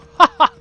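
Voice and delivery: short, high burst of laughter; loud laugh. Real, not acted. Laughs after graphics remark.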